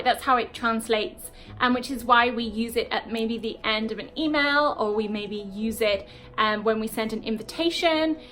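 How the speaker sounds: ordinary talk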